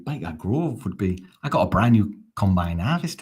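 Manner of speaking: rough attempt at Geordie; half-successful mock Geordie; Geordie accent. Shown as a demonstration. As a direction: try a Geordie accent, not very well. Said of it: "what's the Geordie?".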